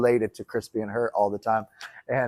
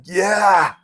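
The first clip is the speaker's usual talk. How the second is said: higher, drawn-out yes; eager imagined reply; 6 semitones higher, 4 dB louder than usual. Retold or imitated. Acting the imagined answer to can you hear me, high drawn-out reply. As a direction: answer a voice in your head, pitched up.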